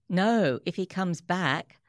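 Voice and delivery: nervous, urgent protest; anxious. Acted. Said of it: "confused by how anxious Shmuel seemed".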